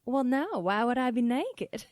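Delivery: put-on lightly indignant Southern-accented mom. Mom protests to her child, mildly indignant Southern accent. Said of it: "this weird accent that I'm choosing".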